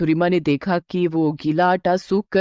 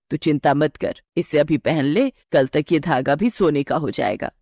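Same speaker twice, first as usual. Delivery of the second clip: a lightly lowered, steady mother-in-law; 5 semitones lower than usual. Acted. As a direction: reassure the bride as a knowing elder. Mother-in-law reassures bride. (हल्की सी नीची आवाज़ में सास)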